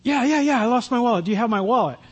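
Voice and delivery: acted eager reply, starting high. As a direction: jump in hopefully, as if retelling your own urgency. Retold eager reply about lost wallet.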